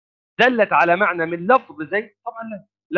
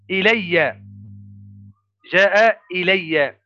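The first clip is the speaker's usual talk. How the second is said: slow example; much slower than usual. Shown as a demonstration. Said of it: "لو قلنا مثلًا".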